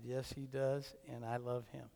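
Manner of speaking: soft, low tender reply; hushed, heartfelt affection. Retold or imitated. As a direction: say it gently, almost to yourself. Tender retold reply about grandson.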